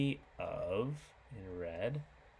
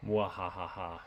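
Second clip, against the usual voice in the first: evil laugh; 2 semitones lower than usual. Pretend. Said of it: "I'm so evil".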